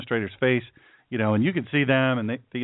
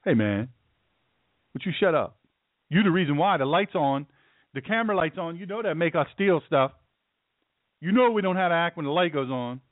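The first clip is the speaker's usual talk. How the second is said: annoyed protester; 2 semitones higher than usual. Acted. Acts protester scolding the reporter.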